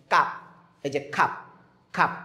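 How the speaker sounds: খাপ with the mouth only one finger open; small-opening a demo. Shown as a demonstration. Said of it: "এটাও আ উচ্চারণ হবে".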